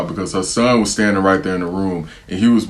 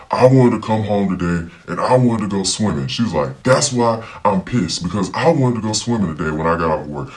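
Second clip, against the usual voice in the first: mocking the mom. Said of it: "started saying, like".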